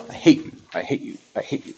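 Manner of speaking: whispered frustrated chant; muttering hate at the machine; angry crying. Real, not acted. Angry chant at smart board.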